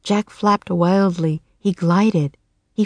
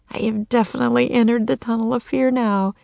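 quick, higher, hushed inner voice; fearful thought; 4 semitones higher, faster than usual. A narrator's reading. Jack on the ledge thinking, hurried fearful thought. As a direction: hurry through it in a high, small voice. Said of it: "he thought".

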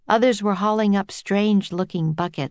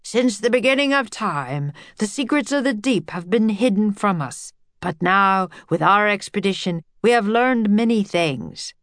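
lecturing; 3 semitones higher than usual. A narrator's reading. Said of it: "as if he were giving a lecture".

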